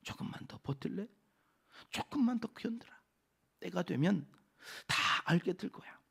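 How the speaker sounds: gentle, hushed encouragement; acted-out compassionate reassurance; tender sympathy. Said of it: "안쓰럽게".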